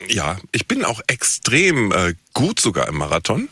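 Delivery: talking with a mouth full; chewing a bite of waffle while talking. Real, not acted. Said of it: "mit vollem Mund".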